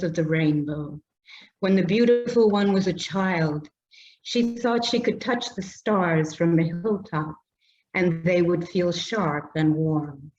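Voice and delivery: measured, slowed poem reading voice; poetry reading. Acted. Poet reading her poem to the audience, measured and unhurried. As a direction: let each image land gently.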